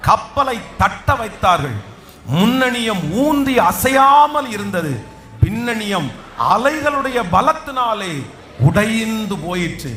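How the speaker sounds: slow, measured Bible reading; scripture reading. Acted. Pastor reading the shipwreck verse to the congregation, slow and solemn. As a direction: read the verse slowly and solemnly.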